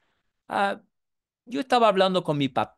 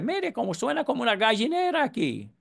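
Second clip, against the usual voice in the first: mocking; 6 semitones higher, faster than usual. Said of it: "un chiste para él".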